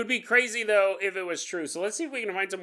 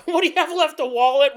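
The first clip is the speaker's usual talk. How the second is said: mocking; 10 semitones higher, 12 dB louder than usual. Mocking the robbed friend.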